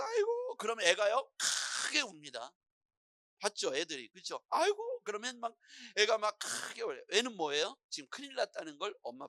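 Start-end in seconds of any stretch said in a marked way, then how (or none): 0.0-0.6 very high, drawn-out wail; mock wailing mother. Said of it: "막 울면서 쫓아가서". 4.5-5.0 high-pitched drawn-out lament; mock wailing mother. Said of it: "막 울면서 쫓아가서".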